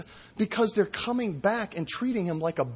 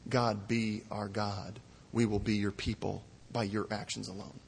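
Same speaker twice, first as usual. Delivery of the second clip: hushed prayer; 7 semitones lower, 7 dB quieter than usual. Retold or imitated. Preacher voicing a humble prayer to God, softer and lower.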